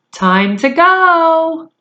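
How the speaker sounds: mother calling her son from downstairs. Acted.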